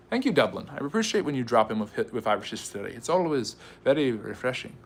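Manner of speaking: lightly put-on, clumsy Irish accent; bad Irish accent. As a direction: attempt an Irish accent, not quite landing it. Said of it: "Okay, that was a bad accent".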